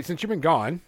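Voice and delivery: words pushed out with a burp; a beer burp mid-sentence. Real, not acted. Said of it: "that beer's making me burp".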